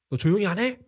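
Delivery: high, sharp mock telling-off; acted scolding. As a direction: snap at someone to shut up, acting it out. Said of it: "꾸짖는 겁니다". (버럭 꾸짖는 흉내)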